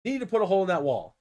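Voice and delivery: imitated orc making excuses; defensive orc boss. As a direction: bluff to cover a blunder. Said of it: "He's like".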